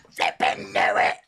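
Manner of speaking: breathy low whisper. Shown as a demonstration. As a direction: whisper it to yourself. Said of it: "Flippin' knew it".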